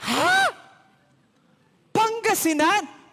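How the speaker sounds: high, loud shocked cry; startled shout. Retold or imitated. Older woman on the plane shouting in shock. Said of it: "Biglang sumigaw si ate".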